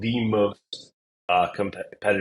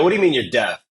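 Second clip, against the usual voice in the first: retold surprised question, higher and louder; taken aback; 4 semitones higher, 5 dB louder, faster than usual. Coach retelling his reaction to a deaf applicant, taken aback. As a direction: ask it in mild disbelief.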